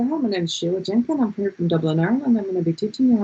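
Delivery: lightly put-on Dublin accent; Irish accent. New teacher greeting middle schoolers, playfully pretended Dublin accent. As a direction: introduce yourself with a touch of Irish lilt. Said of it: "I'd pretend I was from Dublin".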